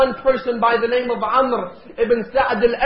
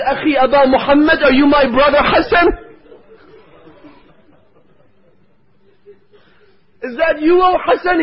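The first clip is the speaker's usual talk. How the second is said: higher, wondering call of recognition; stunned cry; 4 semitones higher, 4 dB louder than usual. Acted. Aunt Zainab greets her nephew, stunned and tearful. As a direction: call out as if seeing the dead brother again.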